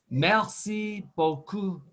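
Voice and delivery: "Merci beaucoup" slowly, stress on "merci"; slow French model. Shown as a demonstration. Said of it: "How about that last phrase".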